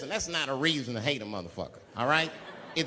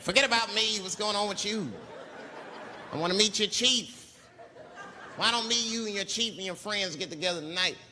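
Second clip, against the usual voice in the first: eager excitement; 3 semitones higher than usual. Retold or imitated. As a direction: pump him up to party. Changing subject, eager to party.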